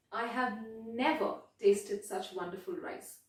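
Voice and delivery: "never" given a little extra weight; mild emphasis on "never"; stress on never. Shown as a demonstration. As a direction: lean lightly on "never". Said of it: "that little emphasis that I had on never".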